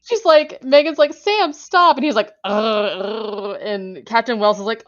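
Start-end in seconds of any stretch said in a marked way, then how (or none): 1.1-2.0 high, loud cry to the dog; urgent high-pitched command, imitated; acted scolding. Acting Megan scolding the dog. 2.5-3.6 tug-of-war growl; playful mock growling; imitated dog growl. Imitating the dog tugging on intestines.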